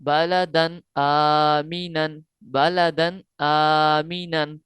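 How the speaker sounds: slow even recitation; tajweed recitation. Shown as a demonstration. Teacher reading the whole phrase to students, slow recitation. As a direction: recite the joined phrase slowly. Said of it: "जब मिलाएंगे".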